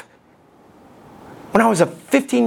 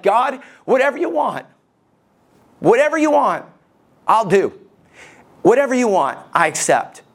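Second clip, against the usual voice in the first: desperate pleading prayer; 4 semitones higher than usual. Retold or imitated. Young preacher at the altar begging God, broken plea. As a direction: plead with everything you have. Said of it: "I'm like".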